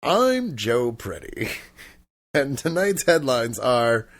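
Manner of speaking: lightly put-on newsreader intro; measured, mildly hammed-up anchor delivery; mock news anchor. Shown as a demonstration. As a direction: introduce yourself like opening the evening headlines. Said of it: "like I was about to read the news".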